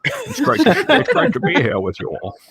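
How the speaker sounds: Sean Connery impression. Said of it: "it's me, Sean Connery".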